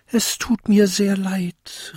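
high little-bell voice calling out. A narrator's reading. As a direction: apologize in a high tiny-bell voice. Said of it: "rief die kleinste Glocke". (hohe kleinste Glocke ruft)

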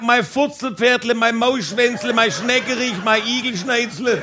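lightly called list of pet names; mock calling out. Couple all day long, mock calling out pet names. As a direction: rattle off endearments as if calling. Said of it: "haben wir uns Kosenamen zugeschrien".

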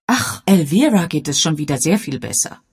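deutlich höher, selbstbewusste Dame; elegante Dame. Acted. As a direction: weltgewandt und bestimmt, hoch. Lady Sedgwick voiced. (Bess Sedgwick spricht zum Inspektor, selbstbewusst)

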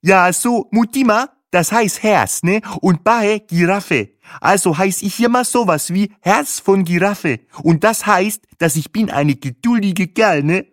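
high, loud, squawky voice; squawky, easygoing guide on a headset; Bahe, chummy tour driver. A narrator's reading. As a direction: introduce yourself high and loud.

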